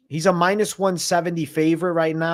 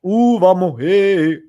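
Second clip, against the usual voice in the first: loud hyped "vamos" shout; excited cheer; 4 semitones higher, 7 dB louder, slower than usual. Real, not acted. Streamer hyping chat over Brazilian fight, loud cheer.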